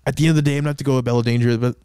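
fast sportscaster breakdown; mock sports commentary. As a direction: rattle it off like a sports pundit. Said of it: "he talks like a sportscaster".

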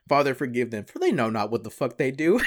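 loud quote with a laugh breaking in; a touch of Black Jesus, cracking up. Retold or imitated. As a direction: laugh through the punchline. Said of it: "watch Black Jesus for the line".

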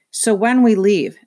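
talking through a mouthful; mouth full. A narrator's reading. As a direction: say it round a bite of fish. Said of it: "through a mouthful of fish".

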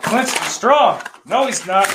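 a goofy bit in a put-on voice; silly put-on voice.

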